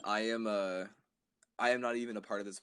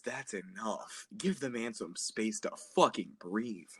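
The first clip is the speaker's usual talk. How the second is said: cool boss; slower than usual. Acted. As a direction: play it calm and in control. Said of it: "that's how I talk, because I'm cool".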